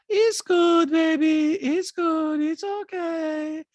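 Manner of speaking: high, eerily detached reassurance; Diana. Retold or imitated. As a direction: soothe them in a creepy, drawn-out monotone. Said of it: "Diana's like".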